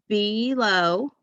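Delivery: 'below' in two clear syllables; syllable-by-syllable reading. Shown as a demonstration. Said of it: "practice reading some two-syllable words".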